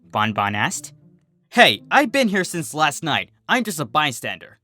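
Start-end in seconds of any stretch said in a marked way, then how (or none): 1.5-4.6 defensive. Acted. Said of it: "Berry Shine said defensively".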